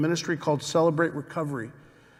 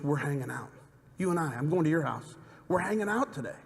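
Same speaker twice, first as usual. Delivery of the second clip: gentle invitation; 5 dB quieter than usual. Acted. Jesus voiced tenderly to Zacchaeus.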